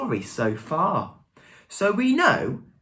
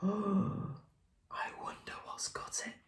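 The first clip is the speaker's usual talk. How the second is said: slow, suspenseful whisper after a gasp; gasp, then whisper it very slowly; hushed whisper; 3 semitones higher, 16 dB quieter, slower than usual. A narrator's reading.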